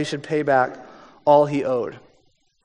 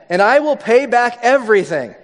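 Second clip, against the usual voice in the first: begging; 5 semitones higher than usual. Acted. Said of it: "he begged".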